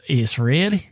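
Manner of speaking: imitated Australian accent on a short question; lightly put-on Australian voice. Woman describing the building to caller, imitated Australian accent. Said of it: "she's using her, uh, Australian accent".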